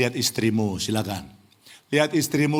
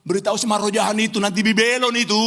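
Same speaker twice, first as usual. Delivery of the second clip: higher, fast warning; imitating the uncle; 5 semitones higher than usual. Uncle warning about reading the Bible too much, fast and raised. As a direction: warn him like a worried Batak uncle. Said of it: "Papa mereka bilang begini".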